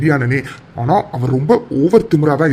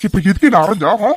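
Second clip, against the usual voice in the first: higher, louder stunned protest; shocked protest; 4 semitones higher, 3 dB louder than usual. Acted. Aravind to Aara, shocked after the slap. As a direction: demand why she hit you. Just got slapped.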